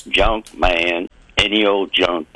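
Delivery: low-pitched street peddler's call; sing-song junk man. Retold or imitated. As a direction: imitate a junk man chanting his wares in short, low phrases. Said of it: "sing-songing thing".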